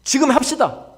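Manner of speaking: high, loud urging; acted shout of eager resolve; energized rallying cry. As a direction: burst out as the fired-up people. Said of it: "백성들이 막 힘을 냅니다".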